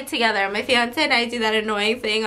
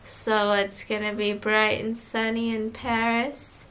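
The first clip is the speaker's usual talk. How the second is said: almost lull them to sleep over the intercom; sleepy pilot voice; 3 semitones lower than usual. Retold or imitated. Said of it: "fall asleep again with your voice".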